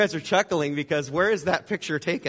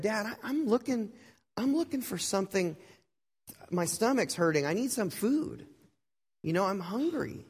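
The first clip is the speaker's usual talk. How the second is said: pleading hungry son; 5 semitones higher than usual. Acted. Hungry son pleads with his father.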